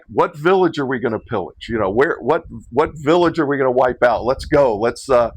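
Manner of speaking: a touch of Viking war-band eagerness; mock battle zeal. Joking to the group after Igor's call, mock battle zeal. Acts out rousing a raiding party.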